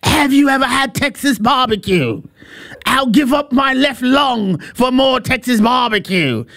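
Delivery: raving, half-shouted fan voice, slow on the last line; excited fan. Retold or imitated. Foreign fan raves to the camera about Texas barbecue, mock shouting. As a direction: gush about the barbecue like a thrilled tourist. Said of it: "One guy was like".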